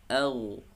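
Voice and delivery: au with a heavy, thick vowel. Shown as a demonstration. Teacher shows a thick au. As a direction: say au full and thick. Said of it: "tebalkan suaranya".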